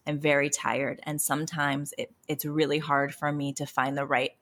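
calm. Retold or imitated. Parent apologising to tired child after yelling, calm. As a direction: settle down and explain gently. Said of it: "And then I'm calm".

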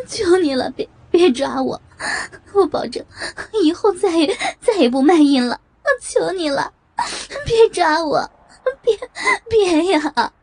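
high, tearful begging for mercy; crying plea. Acted. Woman kneeling and crying, begging the policeman not to arrest her. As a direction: beg through tears not to be arrested. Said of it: "张凯丽哭着".

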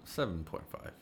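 tipsy, loose delivery. Real, not acted. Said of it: "I'm drunk right now".

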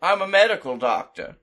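lightly voiced heel promo; villain promo. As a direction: cut a smug villain promo. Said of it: "he pulls a mic out and he says".

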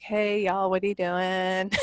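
slow easy Southern greeting, Southern accent. Shown as a demonstration. Greeting folks down in Arkansas, Southern accent. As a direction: lean into a Southern accent on y'all. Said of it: "I can speak both Yankee and Southern".

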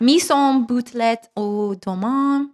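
put-on slow, halting French-accented label reading; tentative French accent, drawn out at the end. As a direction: sound out the French names carefully. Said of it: "should I do my French accent?".

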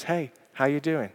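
quiet, gentle "Hey, how you doing?"; soft caring check-in. Retold or imitated. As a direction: ask softly, really meaning it. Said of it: "just says".

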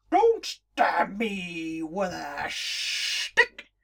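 slow, drawn-out snake voice. Acted. The snake calmly talking to Jemima, slow and drawn out. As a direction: stretch it out like a lazy snake.

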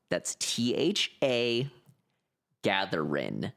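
"Gatherin'" said with no final g; dropped g. Shown as a demonstration. Spelling out the album title to friends, dropping the g. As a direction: clip it to "Gatherin'", no G at the end. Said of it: "No G".

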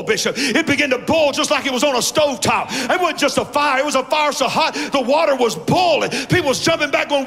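driving, sustained pulpit delivery; full-force preaching. Acted. Preacher to church on God having the remnant, full-force preaching. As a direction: preach it hard, phrase after phrase.

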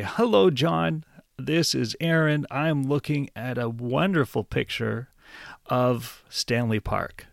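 cheerful hello, then slowing on Stanley Park; friendly phone greeting. Shown as a demonstration. Teacher demos greeting a friend on the phone, cheerful. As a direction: greet John brightly like a phone call to a friend. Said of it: "So you would say".

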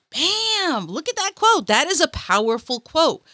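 put-on high, excited quoting of her old self; hyped-up past self. Vlogger mimicking her younger self's hype, pitched high. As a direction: gush over the quote like a fan. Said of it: "It was like".

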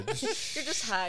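high, slow, drawn out through laughter; laughing tease. Retold or imitated. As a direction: echo the teasing while giggling. Laughingly echoes the teasing.

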